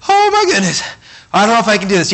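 high, nervous gasp of fear; wife frozen at the cliff, voiced high and scared. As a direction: play the frightened wife at the cliff edge.

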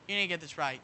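low, soft nudge; quiet prompting. Acted. Preacher as the Holy Spirit nudging a believer, low hushed prompting. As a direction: drop right down and prompt softly.

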